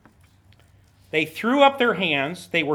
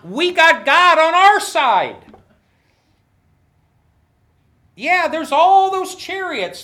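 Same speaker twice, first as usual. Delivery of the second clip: high, loud and slow, full of confidence; rally the crowd with bold faith; confident rallying; 6 semitones higher, 4 dB louder than usual. Retold or imitated. Moses telling the people, bold rallying cry. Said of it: "Moses was trying to say".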